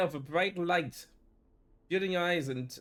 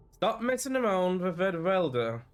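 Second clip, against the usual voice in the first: loud, higher-pitched telling-off; scolding; 5 semitones higher, 5 dB louder than usual. Acted. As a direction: snap an order at a kid. Older girl scolds boy.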